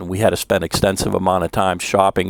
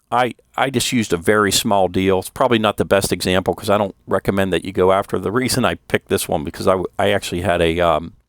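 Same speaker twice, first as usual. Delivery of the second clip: numb mouth, slightly slurred words; numb from the dentist. Real, not acted. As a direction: talk like the Novocaine hasn't worn off. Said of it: "if it sounds like I'm talking funny".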